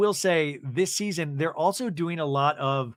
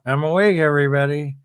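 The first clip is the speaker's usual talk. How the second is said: loud announcement; 2 semitones lower, 9 dB louder than usual. Retold or imitated.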